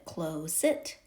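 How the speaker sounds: "close it" split, long O and full short I; wrong trial pronunciation. Shown as a demonstration. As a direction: sound out "close it" as CLOZE ... IT. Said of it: "We say it like that".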